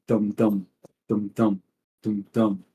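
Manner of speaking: voiced drum beat in even pairs; steady drumbeat. Game master sounds the rowers' drum, steady beat. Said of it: "the steady".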